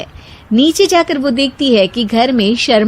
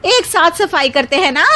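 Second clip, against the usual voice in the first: lightly voiced bahu; 7 semitones higher than usual. A narrator's reading.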